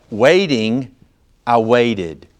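"Waiting" stretched out, a pause, then "I waited"; emphasis on waiting. Shown as a demonstration. Preacher offering another way to say the verse, emphatic. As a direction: set "Waiting" apart before a firm "I waited". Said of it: "try to put emphasis on this".

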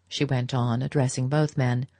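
ordinary delivery

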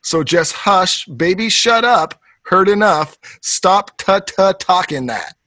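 slow lyric reading. Retold or imitated. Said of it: "It's like".

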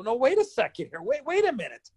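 high, rising retold objection; panicked protest. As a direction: stop him before he turns you away. Protests being refused entry.

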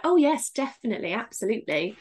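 brightly eager yes, lifted then settling; people-pleasing agreement. Acted. Character saying the right thing to someone's face, eagerly agreeable. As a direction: agree readily to play the part. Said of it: "to that person, she's like".

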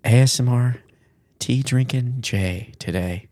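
mock ASMR host, unhurried; relaxing ASMR. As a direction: ease listeners in with a put-on relaxing voice. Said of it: "do the whole episode in this voice".

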